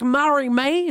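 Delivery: "Mary May" said with an English r and a rising end; playful English accent on "Mary May". Shown as a demonstration. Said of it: "mon accent anglais matin".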